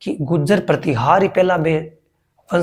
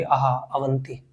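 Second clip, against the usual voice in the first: savouring the word; 4 semitones lower, 10 dB quieter than usual. Shown as a demonstration. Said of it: "या मुंह से बोलो तो इन्हें जीव मायने जी सुरोगे".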